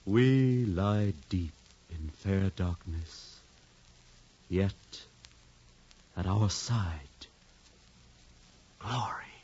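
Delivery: slow recital. Acted. Booth recites a grand line.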